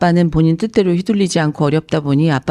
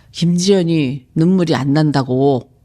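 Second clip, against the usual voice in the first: retold stubborn whining. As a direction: imitate a friend pestering you, pushing harder toward the end. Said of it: "저한테 생떼를 부려서". (생떼 부리는 친구 흉내, 점점 세게 따지듯)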